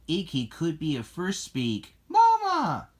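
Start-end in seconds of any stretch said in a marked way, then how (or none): 2.1-2.9 put-on very high, loud baby squeal; baby creature cry. Icky speaks first word to Lassie, high loud baby cry.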